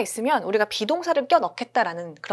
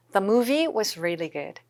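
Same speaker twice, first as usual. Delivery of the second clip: slow repeat of the model; 4 dB quieter, much slower than usual. Shown as a demonstration. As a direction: say it once more, just as slowly. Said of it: "잘 요거 좀 느껴지시죠?". (천천히 한 번 더)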